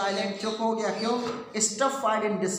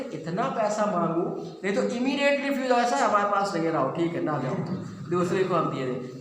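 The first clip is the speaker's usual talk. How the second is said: anxious imagining; 2 semitones higher than usual. Retold or imitated. Wife imagining husband refusing.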